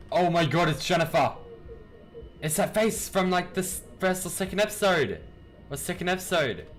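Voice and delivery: high, loud excited outburst; real excited realisation; startled recognition. Real, not acted. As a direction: blurt it out high as it dawns on you. Recognises Jennifer's face in game.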